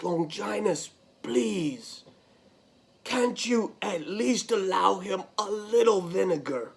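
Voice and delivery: gentle plea. Acted. Joseph pleads with the centurion.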